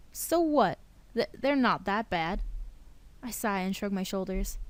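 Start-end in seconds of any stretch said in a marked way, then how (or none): 0.1-2.4 defensive outburst. Acted. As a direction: snap back defensively, then stumble over "Th-, they're". Ted defensive, outburst then stammer.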